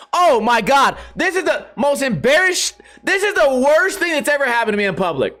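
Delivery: high-pitched retold "oh my God" mortification; mortified outburst. Retelling the jokes at the funeral, mock-mortified and high.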